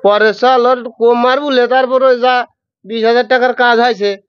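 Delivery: Pabna dialect, calling out a workman; lightly voiced Pabna villager scolding a thief. Shown as a demonstration. Guest picks Pabna dialect and acts out the coconut theft. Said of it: "ওই পাবনা".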